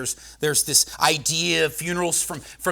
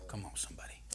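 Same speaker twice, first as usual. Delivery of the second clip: breathy hushed aside; whisper; 10 semitones lower, 21 dB quieter, faster than usual. Real, not acted. Preacher whispering to the congregation for a response. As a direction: lean in and whisper it.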